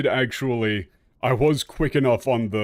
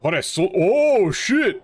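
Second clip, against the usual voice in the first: surprised; 10 semitones higher, 7 dB louder than usual. Real, not acted. Cutscene surprise continues.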